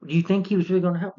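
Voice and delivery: exasperated scolding. Retold or imitated. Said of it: "I'm like".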